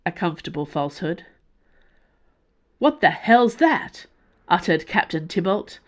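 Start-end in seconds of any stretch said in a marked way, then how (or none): 2.8-4.1 sudden loud alarm, slowed; alarmed shout. Acted. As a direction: blurt it out in alarm. Pilot alarmed by blaze.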